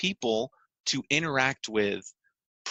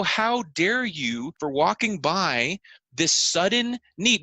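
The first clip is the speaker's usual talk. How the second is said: mock indignant; 4 semitones higher, slower than usual. Outraged onlookers scold the man.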